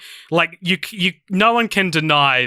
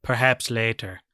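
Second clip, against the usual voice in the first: Doctor Evil quote; 3 semitones lower, 5 dB quieter than usual. Retold or imitated. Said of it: "it's, like, way more like".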